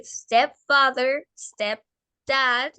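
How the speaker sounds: stepfather, stepdad read out carefully as a model; lectura modelo. Shown as a demonstration. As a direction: say stepfather, stepdad clearly for a learner. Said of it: "Entonces, vamos a decir". (stepfather, stepdad como modelo para repetir)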